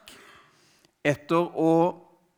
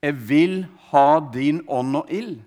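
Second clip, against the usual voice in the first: retold desperate plea, only half shouted; imitated cry to God; 4 dB louder than usual. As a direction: call out to God, slightly raised.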